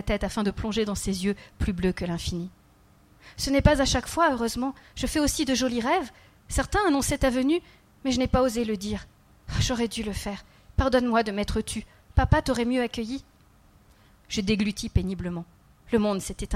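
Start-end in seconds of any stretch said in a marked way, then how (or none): 3.4-13.2 put-on lightly raised child voice, earnest; a small boy confiding, slightly higher; child's voice. The child telling the kneeling man about his dreams, lightly voiced child.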